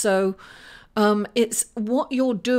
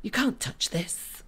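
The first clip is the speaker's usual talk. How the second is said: whispered song quote; 7 dB quieter than usual. Pretend. Jokingly quoting the song.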